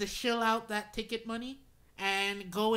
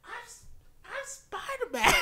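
mock Spider-Man. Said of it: "It was like".

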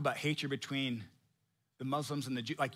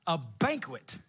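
mock puzzled; slower than usual.

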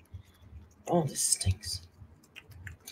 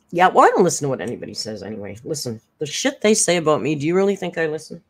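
tough guy voice; faster than usual. Pretend. Voicing the cat's tough talk.

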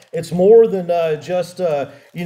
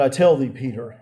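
low, measured reply; very calm voice; 5 semitones lower than usual. Retold or imitated. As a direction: answer calmly, pitched down. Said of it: "probably in a very calm voice".

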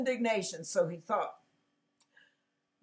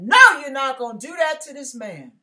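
louder, crying-out refusal; forceful command; 6 dB louder than usual. Retold or imitated. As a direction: put your foot down for the man. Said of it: "God said".

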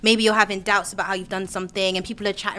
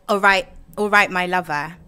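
Bristolian accent; 3 semitones lower than usual. Shown as a demonstration. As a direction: demonstrate a Bristolian greeting. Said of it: "phrases that we have is we say".

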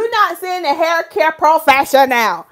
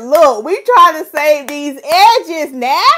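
Tony Gaskins voice; 3 semitones higher, 6 dB louder, slower than usual. Retold or imitated. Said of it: "In my Tony Gaskins accent voice".

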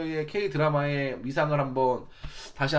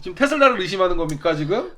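put-on stilted old movie melodrama; 2 semitones higher, 4 dB louder than usual. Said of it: "연기 너무 못하시네".

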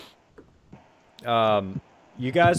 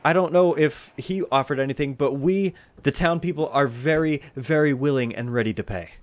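lightly voiced eager villager, slightly raised pitch; earnest townsperson; 3 semitones higher, 4 dB louder than usual. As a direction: offer payment earnestly, as a villager. Townsperson offers payment.

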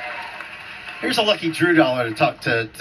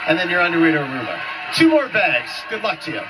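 excited; 3 semitones higher than usual. Acted. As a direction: fire up the contestant. Host hypes contestant on.

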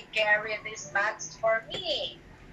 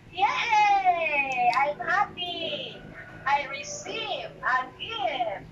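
mock joy; 3 semitones higher, much slower than usual. Shown as a demonstration. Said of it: "How will you express that?".

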